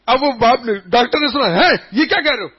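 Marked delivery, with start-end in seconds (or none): 1.5-2.5 shocked doctor. Retold or imitated.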